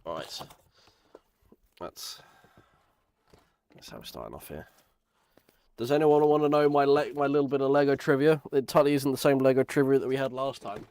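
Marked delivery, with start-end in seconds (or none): 5.8-10.9 loud, eager host voice; excited announcement. Real, not acted. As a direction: pitch it to the viewers with gusto. Excited announcement to stream chat.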